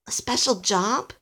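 "A special job?" rising in a question; questioning echo. A narrator's reading. Alistair querying the offer, "A special job?" rising. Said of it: "asked Alistair".

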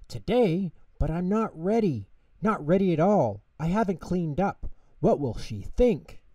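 high, flustered little voice; surprised panic. A narrator's reading. Tutter learns Grandma comes today, high surprised fluster. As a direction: pipe up in surprised alarm. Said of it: "Tutter jumped up in surprise".

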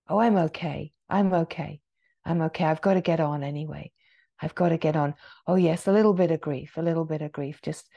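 low, hurried mock brush-off; dismissive self-talk. Teacher voicing someone avoiding grief, hurriedly dismissive. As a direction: play someone brushing feelings aside, low and rushed.

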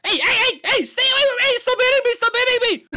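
high, loud panicked protest; scared. Acted. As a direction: yelp in fright, fending off an attacker. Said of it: "Look at how scared he sounds".

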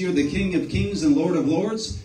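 lifted, fervent prayer voice; fervent public prayer. Real, not acted. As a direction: pray aloud with building praise. Leads a closing prayer.

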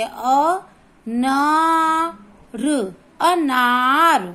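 अनार spelt out, then a long strong ना; stress on ना. Shown as a demonstration. Teacher repeating the rule for pupils, stressed ना. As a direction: draw out and push the ना in अनार. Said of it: "ना को जोर से बोलेंगे".

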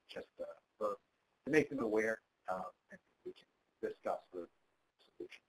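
choppy phone line cutting in and out; words dropping out on a bad call; breaking up. Real, not acted. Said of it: "You're, you're breaking up".

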